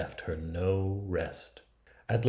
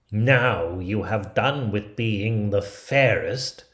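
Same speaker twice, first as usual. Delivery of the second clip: slow, louder triumphant sneer; gloating queen; 6 dB louder, slower than usual. Acted. Wicked queen gloating over fallen Snow White, slow. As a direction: savor her victory.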